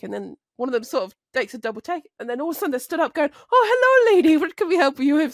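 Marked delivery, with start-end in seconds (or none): 3.5-5.3 high, loud gushing hello; pitched-up, over-attentive welcome; eager mock greeting. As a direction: imitate men suddenly keen to help a lady. Suddenly attentive men greeting a woman.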